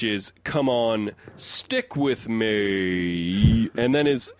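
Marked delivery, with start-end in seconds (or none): 0.4-3.7 very slow, drawn-out robot winding down; robot powering down. Retold or imitated. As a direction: let the robot voice run out of batteries. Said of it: "it sounds like a robot powering down".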